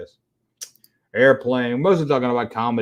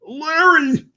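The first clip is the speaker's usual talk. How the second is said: cheery greeting; 13 semitones higher than usual. Real, not acted. Greeting a viewer by name.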